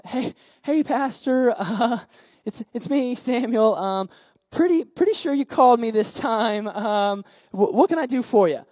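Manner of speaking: lightly voiced boy with nervous chuckles; hesitate, politely insisting, a touch awkward; awkward, eager boy. Boy insists his pastor called him, awkward.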